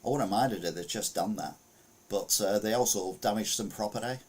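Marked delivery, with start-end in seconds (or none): 0.0-1.5 put-on Aussie homeowner, understated; Australian accent. Host demonstrating the owner's quote, mock Australian accent. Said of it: "This is my Australian accent again".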